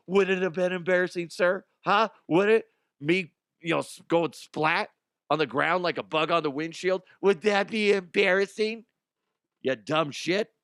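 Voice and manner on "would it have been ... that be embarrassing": sarcastic taunt. Acted. Taunts the worker as the victim.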